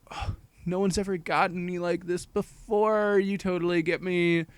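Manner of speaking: mock gush as if finally understood. Girl confides in demon boy, lightly gushing. Lovestruck girl voiced in plot retelling.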